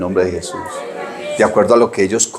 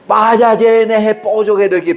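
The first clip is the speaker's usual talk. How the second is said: scolding grandmother; 10 semitones higher than usual. Retold or imitated. Grandmother ordering the boys to take the chick back, high scolding voice. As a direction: pitch it up and draw it out like a cross grandmother.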